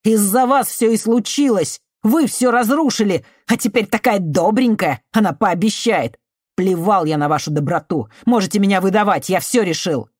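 high, loud furious yelling; betrayed youth screams at the woman who failed him; angry shouting. Acted. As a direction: rage at her, throwing every word. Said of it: "Его злой голос ударил".

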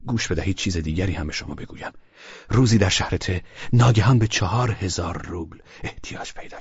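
lightly voiced, earnest man confiding; Velchaninov speaking. Man confiding to Klavdia about a loan, lightly voiced. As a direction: tell her you owe him, sincerely. Narrator voicing Velchaninov's speech.

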